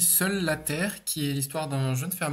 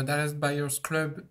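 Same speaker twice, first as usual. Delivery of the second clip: slow, careful English accent on the title; much slower than usual. Shown as a demonstration. Guest repeats the film title in a self-mocking English accent. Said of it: "avec mon magnifique accent".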